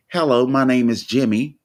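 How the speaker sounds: mild put-on "Hello, my name is Jimmy" in careful standard American English, full "is"; proper standard accent. Shown as a demonstration. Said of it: "you try to change your accent to sound more acceptable".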